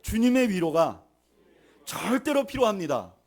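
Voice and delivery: forceful preacher's call for repetition; leading a repeat-after-me. Shown as a demonstration. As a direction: proclaim it phrase by phrase for the congregation to echo. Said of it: "한번 따라하시죠".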